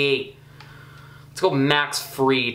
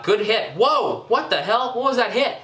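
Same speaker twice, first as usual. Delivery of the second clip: shocked at a strange hit, higher and higher; surprised outburst; 7 semitones higher than usual. Real, not acted. Gamer reacting to a weird hit, shocked and high. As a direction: pitch jumps high in disbelief.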